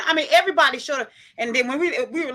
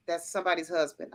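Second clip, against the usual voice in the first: hushed aside; 9 semitones lower, 11 dB quieter than usual. Retold or imitated. Admiring Harry in a black suit.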